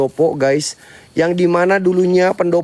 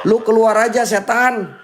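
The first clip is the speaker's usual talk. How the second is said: raised voice at the spirit; calling out; 6 semitones higher than usual. Real, not acted. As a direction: dare the ghost to show itself. Challenging ghost to come out. (menantang setan dengan suara tinggi)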